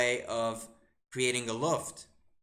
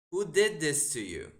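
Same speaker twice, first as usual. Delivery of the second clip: incredulous; 3 semitones higher than usual. Real, not acted. Streamer reacts to opponent's bad move.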